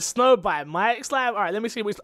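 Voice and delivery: groaning in disgust at the stream; mock disgust. Retelling waking sick, groaning at friend's stream.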